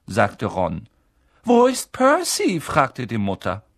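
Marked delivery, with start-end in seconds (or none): 1.4-2.6 high, loud maternal question; raised mother's voice; calling mother. A narrator's reading. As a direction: call out, looking for a son. Mother calls out for son.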